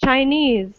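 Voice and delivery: "Chinese" as chi-NESE; second-syllable stress. Shown as a demonstration. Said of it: "So we stress this part".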